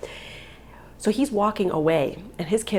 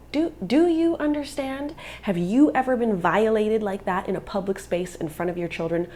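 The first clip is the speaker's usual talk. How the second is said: retold indignation; 2 semitones higher than usual. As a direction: re-enact an angry challenge. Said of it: "And I was so mad".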